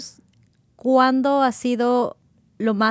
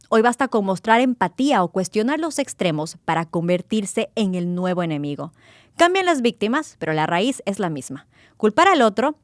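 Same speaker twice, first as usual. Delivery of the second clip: measured, earnest opening read over music; scripted narration. Acted. Podcast host reading the opening script to listeners, measured narration. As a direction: read the intro like a documentary voiceover.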